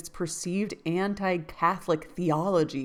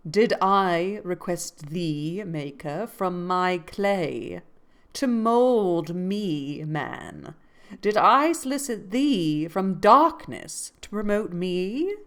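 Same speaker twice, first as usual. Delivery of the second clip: dramatic reading; 4 dB louder, slower than usual. Shown as a demonstration. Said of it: "It's from Paradise Lost".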